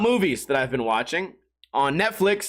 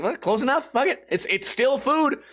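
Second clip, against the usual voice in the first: shrugging it off; 5 semitones higher than usual. Retold or imitated. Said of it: "I'm like".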